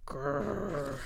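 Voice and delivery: dog growl. Acted. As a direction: imitate a dog's grrr.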